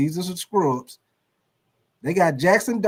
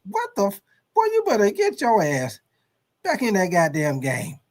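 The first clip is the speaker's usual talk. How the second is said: scolding coach. Acted.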